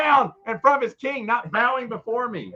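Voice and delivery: high-pitched mock outrage; blustering royal rant; hammed-up angry king. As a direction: threaten like an offended monarch. King threatening a subject.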